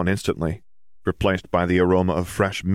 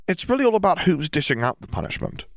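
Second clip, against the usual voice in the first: put-on a touch higher, young girl's voice; lightly voiced girl; 11 semitones higher than usual. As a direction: read Ginny a little higher. Ginny's voice in the story.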